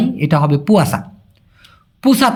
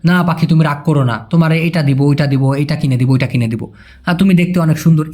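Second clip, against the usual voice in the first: lower, gentle sweet talk; coaxing sweetly; 3 semitones lower than usual. Acted. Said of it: "তো আপনি তাকে বললেন".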